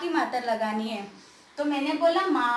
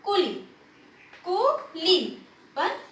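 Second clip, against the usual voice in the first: कुली said in one short burst; quick reading; 2 semitones higher, slower than usual. Shown as a demonstration. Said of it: "जल्दी से पढ़ दिया".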